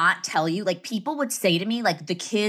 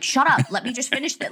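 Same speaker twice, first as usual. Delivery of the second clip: higher-pitched retold interruption; mock sisterly snap; 6 semitones higher than usual. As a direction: cut in on a sibling, playfully.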